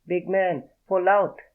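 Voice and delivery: high squeaky panting plea. A narrator's reading. Showgirl squeaking at her lover, high squeaky voice. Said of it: "in that squeaky voice".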